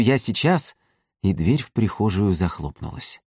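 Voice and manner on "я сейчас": forced cheerfulness. A narrator's reading. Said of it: "крикнула с напускной весёлостью".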